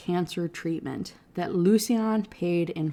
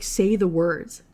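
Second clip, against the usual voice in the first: louder, insistent, pushing him hard; angry demand; 3 semitones higher, 4 dB louder than usual. Acted. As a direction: demand he admit it, voice rising. Heroine angrily demands confession.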